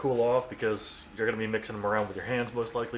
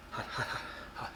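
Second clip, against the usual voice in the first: gasping through a too-hot bite; huffing air around hot food; mouth full of hot food; 10 dB quieter than usual. Real, not acted. That was hot.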